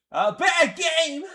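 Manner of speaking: loud, drawn-out groan of disgust; frustrated outburst. Real, not acted. Gamer yelling at the screen in disgust. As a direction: blurt it out, fed up with the game. Gamer reacting to match loss.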